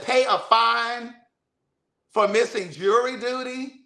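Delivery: high, slow disbelief at a fine for jury duty; incredulous. Retold or imitated. Caller wants a fine paid, so she answers in slow high disbelief. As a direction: stretch it out, can't believe it.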